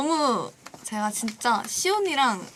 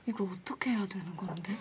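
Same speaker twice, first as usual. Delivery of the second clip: laughing half-whisper; whispered confused question; whispered Yuyeon impression; 3 semitones lower, 9 dB quieter than usual. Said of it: "자, 김유연".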